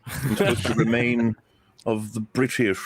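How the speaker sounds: lightly put-on posh British accent; a hint of a proper British voice. Shown as a demonstration. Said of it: "I must talk much more like that".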